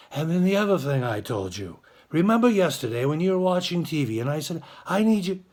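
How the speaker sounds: put-on English accent, nagging parent; English-accented lecture to the kids. Shown as a demonstration. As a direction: keep scolding in an amateur English accent. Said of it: "working on my English accent".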